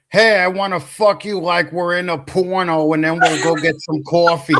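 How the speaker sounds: hammed-up New York accent; mock New York come-on. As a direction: pitch a crude come-on in New York talk. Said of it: "I got a New York accent".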